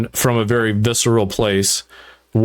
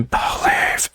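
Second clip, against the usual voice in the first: breathy intimate believe. Shown as a demonstration. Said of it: "instead of it being".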